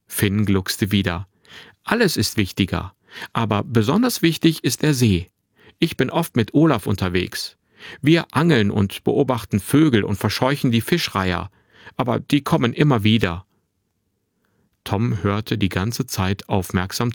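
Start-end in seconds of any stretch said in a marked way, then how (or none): 1.8-13.4 lightly voiced boy, cheerfully chatty; a hint of a lively twelve-year-old; lively young boy. Narrator voices the boy Finn.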